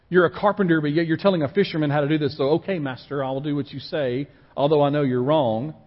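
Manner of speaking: mock-grudging, a touch of sarcasm toward the teacher; sarcastic. Peter humoring Jesus about fishing, lightly sarcastic. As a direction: play it as a tired fisherman humoring a carpenter. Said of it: "sarcastic with his master".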